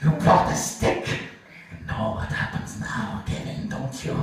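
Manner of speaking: a hint of a stern commandant, hushed and slow; menacing trainer. Trainer scolding Kevin, lightly voiced hushed menace. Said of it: "Goebbels interrogates Kevin".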